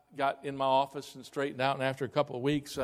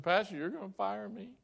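higher-pitched imitation of tearful worry; tearful secretary; 6 semitones higher, 3 dB quieter than usual. Secretary crying to her pastor, imitated tearful fear. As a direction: mimic an upset woman's timid question. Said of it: "and she's crying again".

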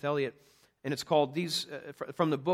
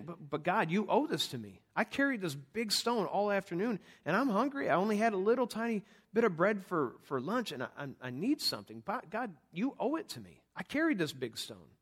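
mock whining to God, pitched up; a hammed-up grumble at God; whiny complaint; 5 semitones higher than usual. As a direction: play the self-pitying worker demanding payment. Voicing a complaining believer to God.

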